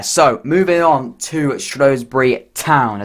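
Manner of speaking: slow, lightly put-on accent on "Shrewsbury Town"; a bit of an accent. Football vlogger introducing the next club, in a slow, lightly put-on accent. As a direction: drawl "moving on to Shrewsbury Town" in a mild mock accent. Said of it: "I gave a bit of an accent there".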